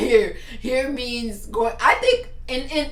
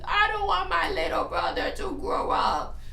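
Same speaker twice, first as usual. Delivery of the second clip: put-on high, slow whiny little girl voice; mock crying daughter; 10 semitones higher, 3 dB quieter than usual. Mom imitating her crying daughter's high whine. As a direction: put on a tearful little girl's plea. Daughter's tearful words retold.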